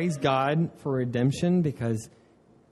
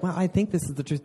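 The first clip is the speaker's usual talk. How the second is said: tentative; faster than usual. Acted. Preacher imitating someone unsure of the truth, tentative. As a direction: say it as a mild, unsure hedge. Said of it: "That's not like".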